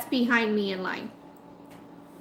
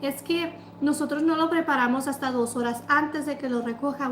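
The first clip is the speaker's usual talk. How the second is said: less aggressive, conciliatory imitation; much nicer; 3 semitones higher than usual. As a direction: explain nicely, imitating the clerk. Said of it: "much nicer, less aggressive".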